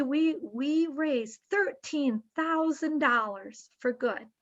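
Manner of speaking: proud. Retold or imitated. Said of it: "really proud to say".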